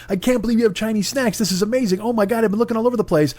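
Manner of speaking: high-pitched, gushing delight; a buyer who's thrilled to find Chinese snacks; mock excited gush. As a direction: rave like you found a treasure. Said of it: "I was so excited".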